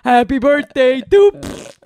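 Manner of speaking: put-on brash kids' entertainer; boisterous birthday clown. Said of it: "you got a very boisterous voice".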